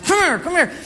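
high mock call of a mom chasing kids; imitating mom calling the boys back. Mother with a rice paddle calling kids, high mock call. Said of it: "she'd swing this rice paddle at us".

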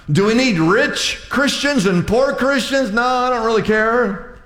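fired-up pulpit delivery; full-force preaching. Acted. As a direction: preach it to the back row.

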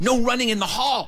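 high-pitched little rule-follower; prim scolding girl. Retold or imitated. Emily to boy running in the hall, prim scolding. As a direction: imitate a girl playing grown-up. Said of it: "you sound like you're forty-five years old".

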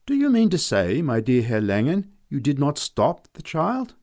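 high, loud indignant reproach; rounding on him. A narrator's reading. Frau Kellermann turning on Herr Langen with loud outrage. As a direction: scold him in loud disbelief. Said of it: "Frau Kellermann rounded on him".

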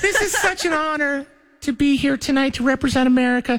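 high falsetto beauty queen; pageant girl voice. Pretend. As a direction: gush it like Miss America. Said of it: "You gotta sound like a girl".

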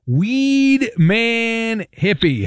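slow, stretched announcer build-up for the guest's name; drawn-out announcer intro. Acted. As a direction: drag every word out like a ring announcer.

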